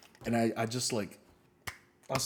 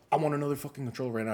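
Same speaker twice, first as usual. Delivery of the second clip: quick, raised-pitch mock demand; imitated angry demand; 4 semitones higher, 3 dB louder, faster than usual. Customer storming into the store for a replacement, angry. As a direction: fire it off like an irate customer. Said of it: "he gets so fucking angry".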